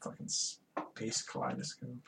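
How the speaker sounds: hushed, slow whispered aside. Real, not acted. Co-host whispers a scornful aside about the show. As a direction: breathe it under your voice. Muttering about the episode's visuals.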